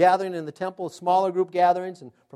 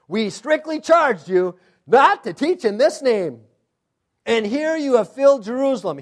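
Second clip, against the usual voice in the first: stern accusation; 3 semitones higher, 5 dB louder than usual. Acted. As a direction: lay down the charge like an angry council. Voicing the council's stern charge.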